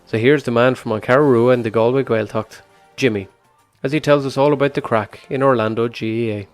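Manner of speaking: scripted voiceover read over music; documentary narration. Acted. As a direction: read it like a radio feature intro.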